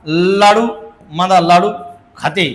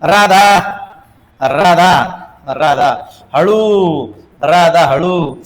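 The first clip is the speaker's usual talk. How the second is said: calling out Radha; 4 dB louder, much slower than usual. Acted.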